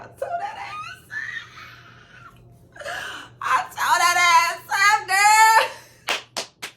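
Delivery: crowing over the win; laughing shout. Real, not acted. Gloating about winning the fight.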